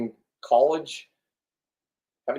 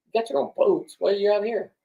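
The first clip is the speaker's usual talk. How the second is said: higher, half-whispered disbelief at a rich guy; mock disbelief, raised voice; incredulous mock dude; 8 semitones higher than usual. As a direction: play the baffled buddy asking why he's out here. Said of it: "I'm like".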